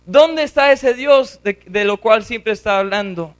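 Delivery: lightly voiced scoffers taunting; taunting crowd. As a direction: needle him like doubting neighbours. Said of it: "todos los demás están diciendo".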